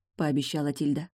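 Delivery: ordinary delivery, nothing marked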